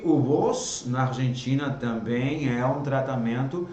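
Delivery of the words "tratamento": informal drawn out slowly; slow teaching demo; slow model word. Shown as a demonstration. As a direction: stretch informal.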